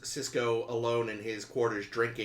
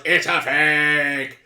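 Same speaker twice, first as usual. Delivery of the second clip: loud hissed exclamation, slowed; whisper yelling; 3 semitones higher, 11 dB louder, much slower than usual. Retold or imitated. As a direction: whisper yell the reveal. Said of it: "a stupid whisper yell".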